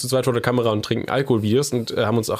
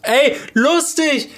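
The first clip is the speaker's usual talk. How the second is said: surprised exclamation; 13 semitones higher, 4 dB louder, much slower than usual. Real, not acted. Surprised reaction to sauerkraut juice.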